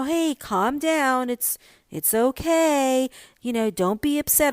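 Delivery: slow, mock-soothing calm down; a condescending hush, drawn out slow. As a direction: patronise them gently and slowly. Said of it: "When people say things like that".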